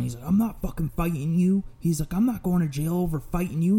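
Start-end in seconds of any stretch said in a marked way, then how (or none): 0.3-1.6 raised pitch, mild mock yell; retold yelling. Old cashier refuses to fight his attacker, mildly yelled protest. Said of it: "the cashier's yelling". 2.1-3.8 higher, half-strength mock yell; retold yelling. Cashier won't risk jail over a fight, mildly yelled protest. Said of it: "the cashier's yelling".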